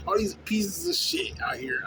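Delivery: slow under-the-breath whisper; whispered aside. Real, not acted. Muttered aside in rant.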